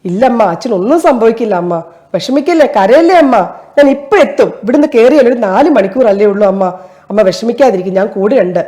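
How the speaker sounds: lightly acted son calming his crying mother on the phone; son soothing his mother. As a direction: reassure her gently, a touch of hidden worry. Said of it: "ഒന്ന് ഞാൻ അവതരിപ്പിക്കാനായിട്ട് try ചെയ്യാവേ".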